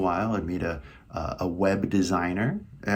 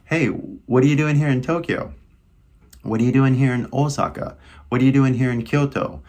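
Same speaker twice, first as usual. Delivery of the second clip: casual Californian, higher and lively; higher-pitched casual California greeting; familiar California accent; 4 semitones higher, 4 dB louder than usual. Shown as a demonstration. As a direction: toss it out in easy California American English. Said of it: "use a familiar accent".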